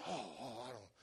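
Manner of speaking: soft and low, backing off; hesitant hush. Retold or imitated. Nervous woman quietly refusing to stand up yet. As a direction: pull back softly, not sure.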